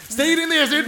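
loud high order; shouting. Acted. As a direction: bark the command. Ordering Mildred to stay.

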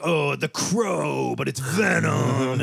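drawn-out, slow mock-dark hype; hint of melodramatic comic-book hype; mock edgy hype. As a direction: stretch it out like a cheesy dark superhero pitch. Mock nineties dark superhero hype.

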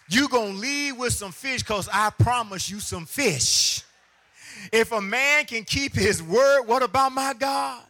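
high, loud climactic shout; preaching at full force. Real, not acted. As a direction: lift the church with it.

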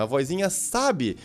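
ordinary talk, nothing marked

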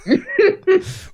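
éclat de rire aigu; high burst of laughter. Real, not acted. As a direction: laugh out at yourself. Laughs at own blunder.

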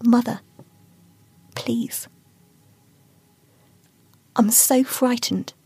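put-on a scared girl begging; frightened Aino. Aino begs her mother.

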